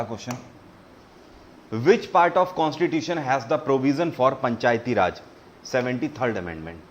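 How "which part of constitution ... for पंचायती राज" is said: reading the question very slowly, word by word; slow quiz read. Shown as a demonstration. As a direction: spell out the question slowly for the class. Quiz host reads question aloud. (प्रश्न को बहुत धीरे-धीरे पढ़ना)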